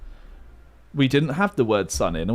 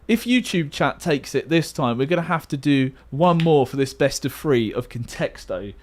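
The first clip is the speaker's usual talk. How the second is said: StarCraft commentator. Pretend. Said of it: "I've turned into a StarCraft commentator".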